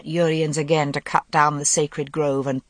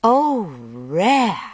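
high, loud mocking exclamation; a sharp, derisive oh rare; scornful; 4 semitones higher, 3 dB louder than usual. A narrator's reading. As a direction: scoff at him with contempt. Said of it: "said Morgaine scornfully".

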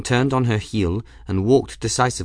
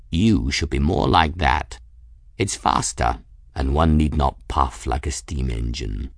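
low-pitched, lofty cat voice; superior cat; 6 semitones lower than usual. Acted. Raoul calling down to puffing Bridget, superior. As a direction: lecture low and self-satisfied.

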